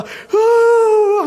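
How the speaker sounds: high, loud sobbing cry; acted sobbing cry. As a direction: burst out in a loud sob. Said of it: "하니까". (높고 크게 흐느끼는 울음)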